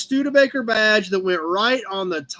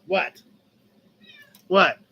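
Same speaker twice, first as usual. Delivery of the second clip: squeaky pet talk; 11 semitones higher than usual. Real, not acted. High squeak asking cat.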